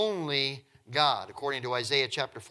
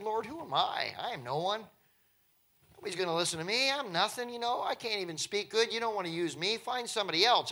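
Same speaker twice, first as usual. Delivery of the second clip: humble Moses; 5 semitones higher than usual. Acted. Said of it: "Moses said".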